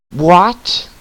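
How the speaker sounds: loud, high, sharply rising southern-free yelp of disbelief; shocked shout. Acted. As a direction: blurt it out loud, pitch shooting up. Acted shock at her own name.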